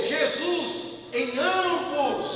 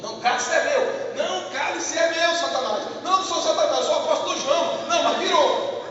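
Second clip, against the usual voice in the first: mock squabble; 5 semitones higher, 3 dB louder than usual. Acted squabble of agitated people.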